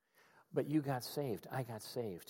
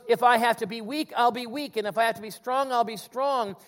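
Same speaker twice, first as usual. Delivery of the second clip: louder, higher rising-falling vow; preaching as Paul; 6 semitones higher, 6 dB louder than usual. Retold or imitated. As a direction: build then resolve each half. Paul's balanced vow.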